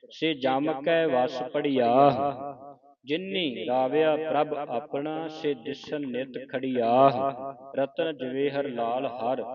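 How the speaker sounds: measured recitation with drawn-out line endings; scripture recitation. Shown as a demonstration. Teacher reads scripture for students to follow, measured recitation.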